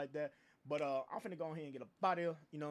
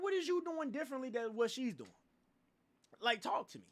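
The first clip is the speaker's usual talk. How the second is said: heated comeback; 5 semitones higher than usual. Retold or imitated. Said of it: "man, it's like".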